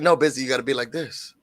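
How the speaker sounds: low and soft, imitating a gentle mentor; imitating soft talk. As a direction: coax softly, like a patient teacher. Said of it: "You have to talk soft".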